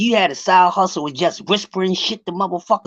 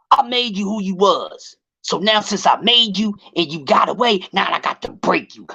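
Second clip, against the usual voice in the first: imitating Floyd; 3 semitones higher than usual. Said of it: "So Floyd come out and say".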